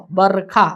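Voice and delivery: बरखा as two beats, बर-खा, the र held without a vowel; बरखा split as "barr-kha"; no vowel after र. Shown as a demonstration. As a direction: hold the र in बर, then release खा. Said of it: "र के बाद अ का उच्चारण नहीं है".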